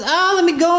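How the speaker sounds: half-hearted cry from a seized squirrel; mild mock panic. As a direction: play a little struggle to break free. Squirrel seized by a snake, struggling.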